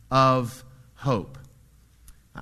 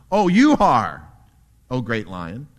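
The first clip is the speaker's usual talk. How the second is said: scared zebra; 2 semitones lower, 7 dB louder than usual. Acted. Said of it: "thinking he might be lunch".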